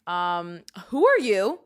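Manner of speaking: put-on a New York accent coming out thick in an indignant comeback. A New Yorker firing back at an Idaho stranger in a thick New York accent. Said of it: "my accent really came out thick".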